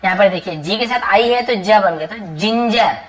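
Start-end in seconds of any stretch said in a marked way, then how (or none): 2.2-3.0 जिंजर with "ji" at the start; soft g as j. Shown as a demonstration. Teacher reading the example for students, जिंजर with j sounds. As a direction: say जिंजर as "jin-jer", both sounds j. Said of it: "ऐसे जंजर नहीं पढ़ेंगे".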